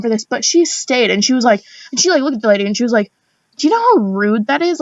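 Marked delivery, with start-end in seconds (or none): 3.6-4.8 indignant. Retold or imitated. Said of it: "she went off on this bitch".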